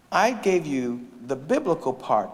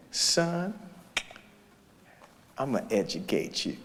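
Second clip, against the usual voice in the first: quiet teacher's promise; 7 dB quieter than usual. Retold or imitated. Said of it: "he said".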